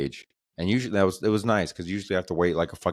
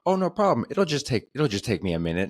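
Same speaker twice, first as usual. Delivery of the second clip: high, light mock-casual promise; chirpy no-problem voice; imitating the eager carpet guy; salesman's breezy reassurance; 6 semitones higher than usual. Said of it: "He's like".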